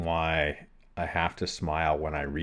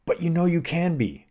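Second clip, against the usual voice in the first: higher, gently insistent self-belief; retold encouraging inner voice; 10 semitones higher than usual. Athlete's positive inner voice talking to himself, encouraging. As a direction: voice the hopeful part of yourself, pitched up. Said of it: "a truly positive part of self".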